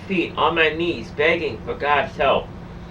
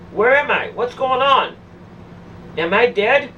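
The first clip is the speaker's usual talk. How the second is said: higher-pitched, panicked questioning without a full shout; re-enacting frightened disbelief; retold bewildered outcry; 5 semitones higher than usual. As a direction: cry out in confusion, mildly acted. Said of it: "I cried out lou-, out loud".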